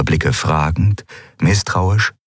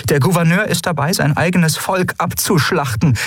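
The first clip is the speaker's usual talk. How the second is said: higher-voiced admiral speaking gravely to her officers; a commander laying bare a hard truth; earnest admiral; 8 semitones higher than usual. A narrator's reading. Admiral continues her appeal. (ernste Admiralin)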